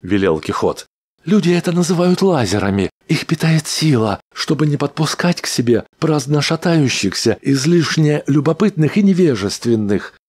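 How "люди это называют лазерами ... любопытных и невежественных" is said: high, quick little rodent voice; a cheeky mechanical rat; squeaky rat voice. A narrator's reading. Rat character voiced by narrator.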